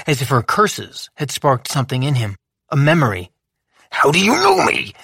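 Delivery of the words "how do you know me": fierce. A narrator's reading. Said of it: "he asked fiercely".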